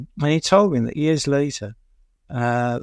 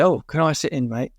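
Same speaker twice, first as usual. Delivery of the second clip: put-on Birmingham accent; 3 semitones higher than usual. Drummer asking a pub band to join in, light Birmingham accent. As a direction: imitate a Brummie asking politely, Birmingham vowels. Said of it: "in a Birmingham accent, not Cockney accent".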